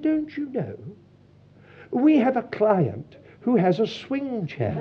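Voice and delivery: lightly put-on posh phone voice; terribly posh. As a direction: imitate a posh English lady on the phone. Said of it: "a terribly posh voice said".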